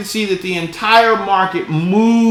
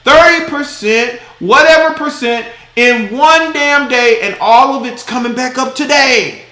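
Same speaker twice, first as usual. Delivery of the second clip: raised, outraged disbelief at the crash; exasperated rant; 4 semitones higher, 3 dB louder than usual. Real, not acted. Vlogger ranting to viewers about the crypto crash, exasperated. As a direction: rant about the drop and rebound, higher and louder.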